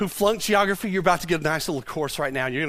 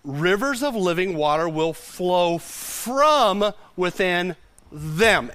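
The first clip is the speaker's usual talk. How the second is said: slow scripture reading; slower than usual. Retold or imitated. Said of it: "as the scripture said".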